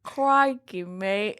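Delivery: hammy attempt at an Australian accent; mock Australian accent. Co-host answering a dare to try her best, mock Australian accent. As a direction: try a stock Aussie greeting, badly. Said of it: "Try, try your best Australian accent".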